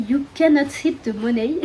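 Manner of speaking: English title in a French accent; self-mocked French-accented English. Real, not acted. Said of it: "mon accent anglais est toujours magnifique".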